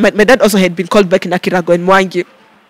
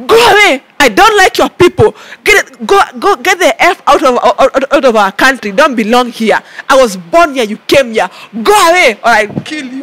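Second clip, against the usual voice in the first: angry yell; 2 semitones higher than usual. Retold or imitated. Yelling at a man.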